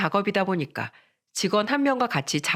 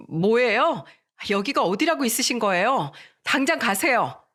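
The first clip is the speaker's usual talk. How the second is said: curt; 3 semitones higher than usual. Retold or imitated. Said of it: "퉁명스럽게 말했다고".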